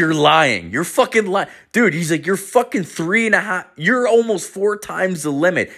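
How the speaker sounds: high-pitched, disbelieving outburst; incredulous instructor. Retold or imitated. Instructor incredulous at test result.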